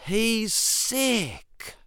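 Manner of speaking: high alarmed squeal. Retold or imitated. Mother seeing the pink baby, high frightened squeal. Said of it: "she squealed".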